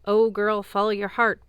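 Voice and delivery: lightly mocking old hag. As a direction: sneer out the hag's advice. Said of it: "The hag says".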